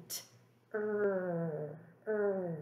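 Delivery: "er, er" drawn out as a growling r; stretched out. Shown as a demonstration. Teacher stretching out the word tree. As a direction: stretch the "er" sound. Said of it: "when I stretch out tree".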